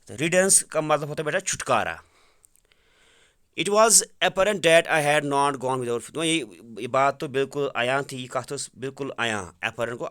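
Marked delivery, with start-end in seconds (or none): 3.6-6.1 each word read out slowly and clearly for the class; slow reading aloud. Shown as a demonstration. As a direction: dictate the sentence slowly. Teacher reads English text aloud. (آہستہ آہستہ پڑھ کر سنانا)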